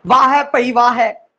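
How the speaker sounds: ਵਾਹ ਹੈ with the h in ਹੈ fully sounded; wrong way. Shown as a demonstration. Teacher to students, showing the wrong pronunciation of ਹੈ. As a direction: stiff spelled-out ਹੈ. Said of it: "ਨਹੀਂ, ਨਹੀਂ, ਨਹੀਂ".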